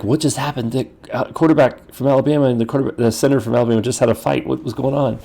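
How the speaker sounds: a pastor lightly imitating stunned football commentators; amazed commentator. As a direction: play the baffled TV commentator. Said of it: "the commentators are like".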